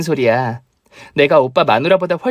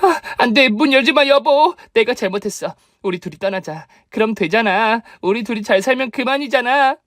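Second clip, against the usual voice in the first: pleading sobs; 6 semitones higher than usual. Acted. Pleading, caught by police.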